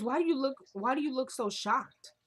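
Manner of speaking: retold taunt, lifted in pitch. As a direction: needle them with feigned concern. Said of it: "She's taunting her the entire time".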